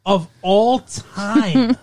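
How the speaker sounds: slow, high, loud incredulous echo with a laugh; slow, high, loud laughing disbelief; mock awe. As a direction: stretch it out in disbelief.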